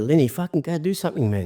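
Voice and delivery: mock nagging his mate to get it sorted; exasperated urging. Boss telling injured Lenny to get it fixed, exasperated. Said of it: "You think".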